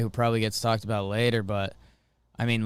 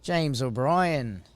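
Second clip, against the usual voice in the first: Australian accent; slower than usual. Shown as a demonstration. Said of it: "say James O'Brien in an Australian accent".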